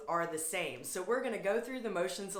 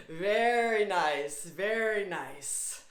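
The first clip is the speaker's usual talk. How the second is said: warm praise; 3 dB louder, slower than usual. Real, not acted. Teacher praising class warmly.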